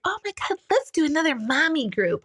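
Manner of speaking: high, perky mommy-group voice; mock enthusiastic. Mocking other moms inviting her to mommy groups, high and perky. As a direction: gush like an eager mom. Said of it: "Everyone's like".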